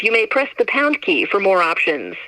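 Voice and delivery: ordinary talk, nothing marked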